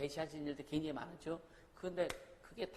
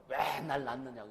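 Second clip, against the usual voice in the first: put-on child's retort; 3 semitones lower, 5 dB louder than usual. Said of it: "뭐라 그래요".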